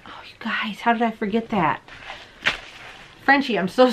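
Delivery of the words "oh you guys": whisper. Real, not acted. Aside to viewers.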